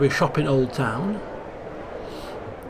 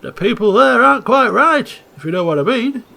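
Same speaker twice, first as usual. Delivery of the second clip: put-on louder Italian-accented sailor, conspiratorial; Italian accent, a sly warning; Italian accent, knowing and hushed in tone; 5 semitones higher, 7 dB louder than usual. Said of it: "Italian-speaking, uh, sailor from the accent".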